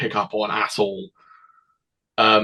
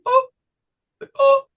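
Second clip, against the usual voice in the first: imitated tic noise; 5 dB louder than usual. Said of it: "like a really loud sort of noise".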